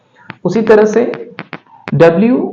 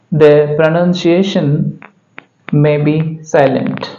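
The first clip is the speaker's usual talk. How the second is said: slow reading; 2 semitones lower, much slower than usual. Shown as a demonstration. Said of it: "Following a vowel letter".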